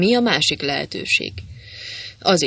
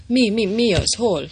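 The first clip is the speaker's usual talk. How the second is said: dazed waking; 5 semitones higher than usual. Acted. Waking up dazed after being knocked out.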